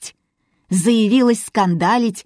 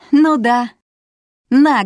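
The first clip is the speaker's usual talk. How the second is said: laughing; 5 semitones higher, 6 dB louder, slower than usual. Acted. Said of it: "рассмеялась Феоктистова".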